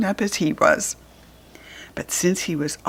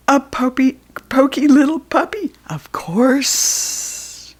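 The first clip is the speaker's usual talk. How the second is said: grinning snake; 6 semitones higher, slower than usual. Acted. Snake revealing the puppy is supper, gleeful then whispered. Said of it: "said the grinning snake".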